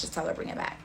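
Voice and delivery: quiet unvoiced phone demand, like a whisper; hushed. The friend on the phone, urging quietly, whispered. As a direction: breathe it low, almost a whisper.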